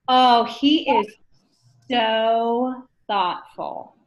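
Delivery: slow, dreamy so thoughtful; drawn-out lovestruck gush, lightly done; swooning admirer. Retold or imitated. New dater gushing over a partner, slow and dreamy.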